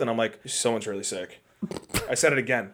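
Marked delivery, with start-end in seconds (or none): 0.5-1.4 quiet, subdued quote; soft retold confession. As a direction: replay the awkward news softly. Retelling the repeated botched line.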